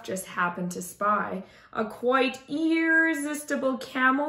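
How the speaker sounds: lilting rhyming storybook reading; story narration. A narrator's reading. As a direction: read it aloud to children with expressive rhythm. Reads a rhyming picture book aloud.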